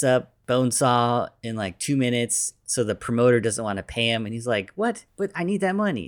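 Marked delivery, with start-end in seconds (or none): 4.7-6.1 much higher, indignant disbelief; shocked protest. Retold or imitated. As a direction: squeak out the outrage. Peter stunned at no pay.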